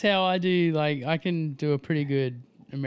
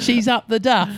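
laughing; 10 semitones higher, 10 dB louder than usual. Real, not acted. Gleeful teasing pregnancy news.

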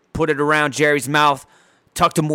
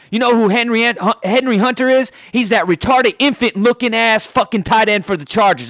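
fired up; 5 semitones higher than usual. Real, not acted. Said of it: "I got fired up".

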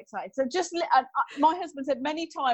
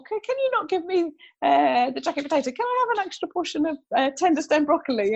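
higher-pitched pleading restaurant request; retold order in a raised, wheedling pitch; lightly acted customer; 5 semitones higher than usual. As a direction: mimic yourself politely asking for swaps. Acted fussy food order to staff.

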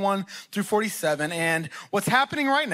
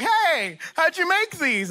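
lovingly; 8 semitones higher, slower than usual. Retold or imitated. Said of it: "And so lovingly".

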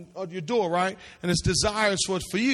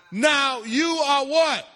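calling out; 4 semitones higher, much slower than usual. Real, not acted. Preacher calling out to congregation.

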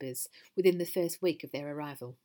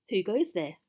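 firm, louder challenge at normal pace; 5 dB louder than usual. Acted. The voice challenging Mrs Gruff from below, firm. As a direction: call out the question firmly.

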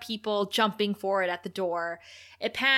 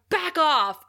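put-on loud, higher snarl of a teen tough; mock snarl; 7 semitones higher, 6 dB louder than usual. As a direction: bark it like a cocky rebel. Giles threatens Buffy.

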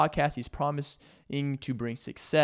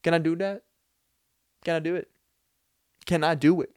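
put-on higher, halting Hispanic accent; imperfect imitation of a Hispanic accent, raised pitch; 4 semitones higher than usual. Visitor asking permission to measure, put-on Hispanic accent. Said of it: "Didn't do the best Hispanic accent ever".

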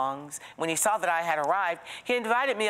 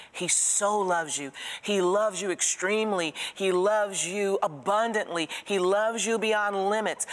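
building preaching; 4 semitones higher than usual. Acted. Preacher builds on God's love.

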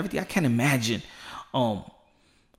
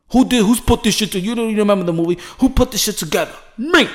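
hyped boastful shout; 3 semitones higher, 4 dB louder than usual. Retold or imitated. Voicing Oscar boasting loudly.

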